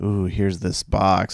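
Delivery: put-on, slow, dead serious movie trailer voice. Comparing two trailer versions, re-enacting the original teaser's much more serious tone. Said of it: "It was in a much more serious tone".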